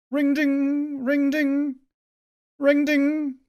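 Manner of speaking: high, loud sing-song chime; rejuvenation chime. Pretend. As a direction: ring it out like a spell. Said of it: "That's rejuvenation, by the way".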